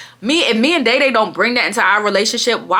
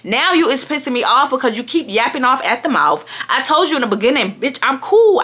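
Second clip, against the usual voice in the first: fed-up telling-off, somewhat raised pitch; irritated; 3 semitones higher than usual. Retold or imitated. Telling the drunk friend to leave her out, irritated. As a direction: retell a heated scolding. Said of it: "So I'm getting irritated".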